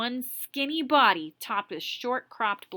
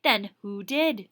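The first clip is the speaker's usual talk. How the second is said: stern challenge; 5 dB louder, slower than usual. Acted. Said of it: "she asked".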